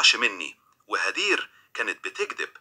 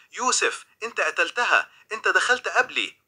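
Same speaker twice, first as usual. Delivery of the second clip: high-pitched accusing cry, without real volume; mild narrated scream, pitched up; understated scream; 8 semitones higher than usual. A narrator's reading. Granddaughter accusing Youssef over her grandmother's body, mild high-pitched scream. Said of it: "وصرخت".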